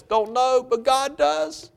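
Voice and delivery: high-pitched, stretched-out reply; high reassuring answer. Acted. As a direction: lift the pitch right up and draw it out. Answering an imagined struggling churchgoer.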